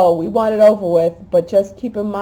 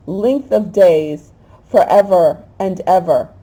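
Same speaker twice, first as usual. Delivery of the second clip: psalm reading; 4 dB louder than usual. Acted. Preacher reading the psalm to her viewers, fervently. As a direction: proclaim the psalm like a prayer.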